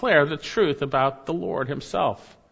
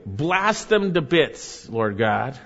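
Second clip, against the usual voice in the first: mock vengeful prayer; much slower than usual. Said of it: "He doesn't say".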